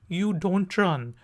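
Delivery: don't quick and clipped. Shown as a demonstration. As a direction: run do not into don't. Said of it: "faster form होगी".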